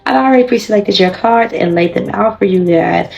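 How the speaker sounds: raspy, worn-out voice; talking through a sore throat; hoarse voice. Real, not acted. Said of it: "As you guys can hear, your girl voice is still a little bit fucked up".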